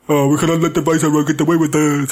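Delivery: a hint of a stiff regal accent; lightly voiced royal proclamation; mock posh queen voice. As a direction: parody the queen's formal speechifying. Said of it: "Why are you talking like that again?".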